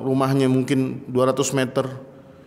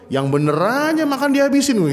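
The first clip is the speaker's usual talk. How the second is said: mock grumbling host; 9 semitones higher than usual. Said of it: "marah lagi nih".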